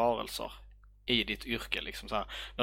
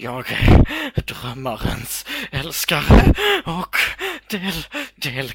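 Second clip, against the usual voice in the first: put-on dazed creature voice, much higher, louder; 7 semitones higher, 13 dB louder than usual. Voicing a dream creature swaying in someone's grip, in a dazed dream creature voice.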